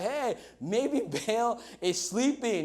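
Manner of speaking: mock taunting. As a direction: needle them with mock sympathy. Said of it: "it starts to taunt them".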